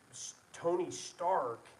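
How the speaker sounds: high, slow, drawn-out mock yell of the name; retold scream. Furious boss yelling a name at his engineer, imitated. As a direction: bellow the name like Jeff Bridges losing it at the engineer. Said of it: "he's screaming at the top of his lungs".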